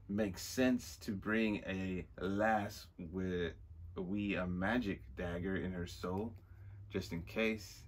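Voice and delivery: slow, lightly put-on Scottish accent. Villain explaining why the lass came along, Scottish accent. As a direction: take it slowly in a Scottish brogue. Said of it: "We're doing the Scottish accent again".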